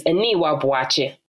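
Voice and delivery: Aniwa Boakye with accent slightly shifted; lightly Ghanaian-leaning Aniwa Boakye; own pronunciation. Shown as a demonstration. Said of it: "how I would pronounce my name is".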